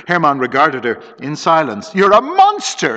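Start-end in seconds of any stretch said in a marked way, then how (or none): 1.9-3.0 high, loud accusing outburst; exclaiming. A narrator's reading. Lisa accuses Hermann after his confession, high loud outburst. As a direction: fling the accusation at him. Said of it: "exclaimed Lu-, Lisa".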